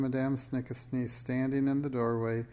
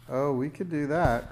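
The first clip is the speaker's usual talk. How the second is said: put-on louder, eager child's exclamation; eager cry; 3 semitones higher, 6 dB louder than usual. A narrator's reading. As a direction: cry out keenly, mildly excited. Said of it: "cried Jack".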